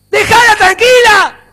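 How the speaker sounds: high, loud, drawn-out yell; exasperated shout. Acted. Preacher tells controlling partners to back off, shouting. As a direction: yell it as a scolding order.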